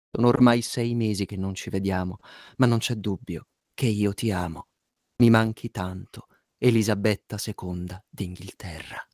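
sultry narrator. Acted. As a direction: read it like a seductive love letter. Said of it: "Con voce sensuale".

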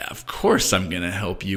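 gentle, kindly reassurance; compassionate reassurance. Shown as a demonstration. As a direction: reassure with a smile in the voice. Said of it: "Was it said with compassion?".

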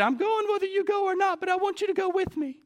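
very high, loud wife impression; comically high imitation of a determined wife; voice for Sarah. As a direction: insist in a squeaky put-on voice. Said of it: "Do you like my voice for Sarah?".

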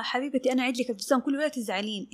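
soft, quick soothing words; placating. Acted. Dressmaker appeasing an unhappy client, softly placating. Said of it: "يعني في كلمات ترضي".

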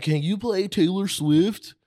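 put-on drunk white woman. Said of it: "they be coming up to me like".

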